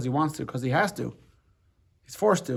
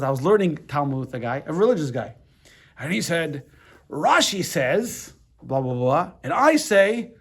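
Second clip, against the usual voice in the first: put-on a loose British accent for the square Glasgow rabbi; half-managed British accent, retelling his story. Friend's British father retelling a Talmud study, loose British accent. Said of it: "I can't even do pr-, pr-, pr-, his accent properly".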